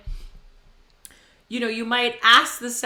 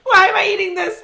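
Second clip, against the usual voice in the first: mouth burning; 10 semitones higher, 12 dB louder than usual. Real, not acted. Tasting very hot sauce on podcast.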